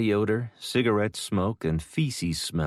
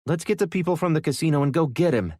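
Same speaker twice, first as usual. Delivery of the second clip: eager urgency; 9 semitones higher, 4 dB louder, faster than usual. Acted. Boy eager to rescue dad.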